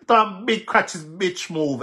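heated. Real, not acted. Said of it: "I'm getting a little bit heated".

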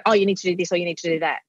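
quick, dismissive orders; hurried bossy telling-off; bossy parent demand. Shown as a demonstration. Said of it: "if you go".

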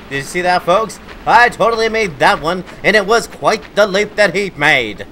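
mock sportscaster hyping the leap; sports commentator voice. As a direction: call it like a sports announcer. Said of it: "That's my sports commentator voice".

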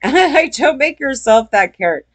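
a laugh before, then the warning said through a chuckle. Real, not acted. Telling viewers not to be a Karen, laughing. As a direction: laugh and toss the warning off again.

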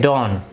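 "Don't" with the final t dropped; t silent in don't. Shown as a demonstration. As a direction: say "Don't" as don, t nearly silent. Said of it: "इसको हम कुछ इस तरीके से भी पढ़ सकते हैं".

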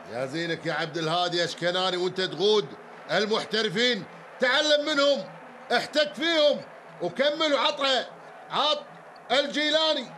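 rising, excited commentary; excited Gulf Arabic handball commentary; live play-by-play. Real, not acted. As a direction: call the attack as it builds.

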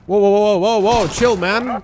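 loud startled whoas; jolted, calling out to calm him. Real, not acted. Startled by burning enemy.

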